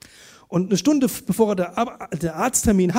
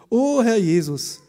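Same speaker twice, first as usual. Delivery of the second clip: prayer phrase, slow; 3 semitones higher, 5 dB louder, slower than usual. Retold or imitated. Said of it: "diese Floskel".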